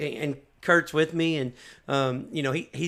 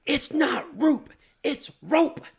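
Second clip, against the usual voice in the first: mock angry correction; 9 semitones higher, much slower than usual. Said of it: "She's screaming at me".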